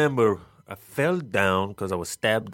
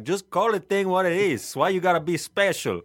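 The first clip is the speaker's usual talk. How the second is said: higher-pitched, exasperated complaining; exasperated rant; 5 semitones higher than usual. Acted. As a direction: rant in mock exasperation at needless fuss. Mock rant about British words.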